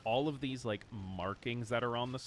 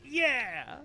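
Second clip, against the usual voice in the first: excited; 4 dB louder than usual. Real, not acted. Chaotic portal idea cheer.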